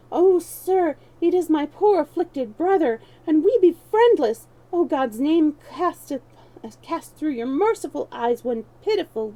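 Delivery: loud, high beggar's wailing plea; hammed-up begging wail; mock wail. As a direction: wail it out like a pitiful beggar faking misery. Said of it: "set you up a wail".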